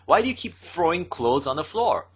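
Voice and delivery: restrained mock outburst at a husband; mock angry scolding. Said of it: "she starts screaming at him".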